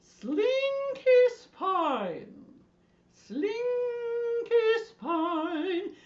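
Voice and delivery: very slow, high sing-song; long held high notes with a swoop; Julia Child. Acted. Teacher leading the silly spine dance, high sing-song. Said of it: "in your best Julia Child voice".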